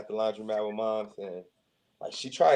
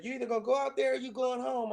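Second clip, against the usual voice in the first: higher mock mom voice; mom's ultimatum; 12 semitones higher than usual. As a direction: lay down mom's ultimatum, pitched up.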